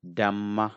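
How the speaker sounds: Dhamma with a firm, doubled m; strong sound. Shown as a demonstration. Teacher demonstrating a strong sound to learners, doubled m. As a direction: press into the mm of Dhamma. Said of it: "I say it deeply".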